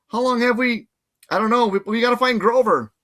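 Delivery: high, loud alarm; panicked. Acted. Kids realizing time lost, high and panicked. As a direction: rush it out in panic.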